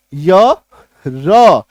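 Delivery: य, र as two isolated sounds; separate letter sounds. Shown as a demonstration. Teacher showing the sounds inside AIR, separate letter sounds. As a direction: say य, pause, then र on its own. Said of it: "ये sound आता है".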